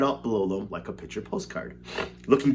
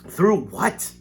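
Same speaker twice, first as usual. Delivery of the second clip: higher, louder startled question; alarmed shout; 8 semitones higher, 4 dB louder than usual. A narrator's reading. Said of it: "shouted Grandpa Joe".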